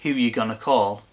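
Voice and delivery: flat monotone, no tune. Shown as a demonstration. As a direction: say it dead flat. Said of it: "even if you say in a monotone voice".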